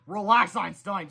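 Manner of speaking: slow, easy calm; slow calm reply. Acted. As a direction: settle him down coolly. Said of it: "said George calmly".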